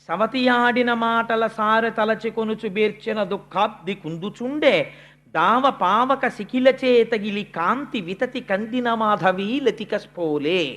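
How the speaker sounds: slow, measured poem recital; unhurried, half-intoned classical verse; verse recitation. Acted. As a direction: recite the verse with drawn-out syllables. Recites a verse within his discourse.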